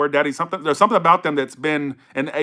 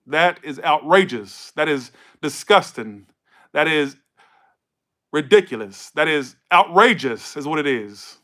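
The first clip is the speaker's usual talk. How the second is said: slow, emphatic outrage; indignant scolding; 4 dB louder, slower than usual. Real, not acted. Reader scolding Gemini for waiting, indignant. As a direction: weigh each verdict, punching the key word.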